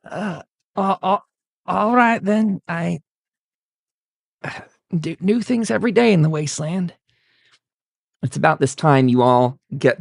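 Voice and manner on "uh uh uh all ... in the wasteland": flustered stammer. Acted. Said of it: "And Ted goes".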